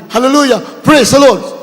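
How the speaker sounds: a mild retold shout of praise; retold shouting prayer. Blindfolded captive cries out to God, mild mock shout. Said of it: "Sigaw siya na sigaw".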